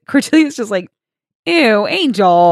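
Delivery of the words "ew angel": drawn-out, louder "ew" of distaste; slow mock disgust at an ex's antics. Voices Cordelia's disgust at Angel.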